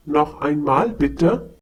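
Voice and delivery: "Noch einmal bitte" as a polite request, not a question; request intonation. Shown as a demonstration. Teacher contrasts a request with a question, polite request tune. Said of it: "Please note the change in the intonation".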